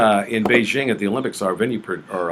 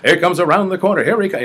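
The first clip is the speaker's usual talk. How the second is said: higher, louder track announcer call; American race caller; 9 semitones higher, 6 dB louder than usual. Retold or imitated. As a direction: call the horses in an American accent. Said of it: "American way. I went".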